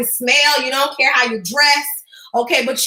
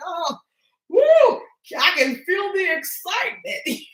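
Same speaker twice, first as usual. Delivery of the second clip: mock excitement; 3 semitones higher, slower than usual. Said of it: "Okay, I'll be like".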